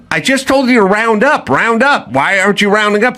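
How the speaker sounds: high, fast, exasperated demand; pushing them to just round up; frustrated at people who won't round up. Retold or imitated.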